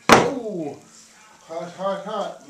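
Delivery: puffing around a hot bite; hot food in the mouth, blowing; mouth full of hot food. Real, not acted. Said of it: "You need that hot flame".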